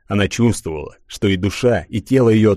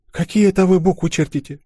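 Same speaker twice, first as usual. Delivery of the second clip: raised, wondering question; surprised; 10 semitones higher than usual. Acted. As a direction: ask it with sudden surprise. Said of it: "спросила она с удивлением".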